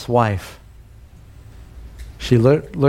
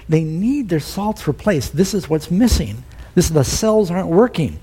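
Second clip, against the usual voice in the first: quoting the doctor; 4 semitones higher than usual. Retold or imitated. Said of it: "Doctor Norbert said".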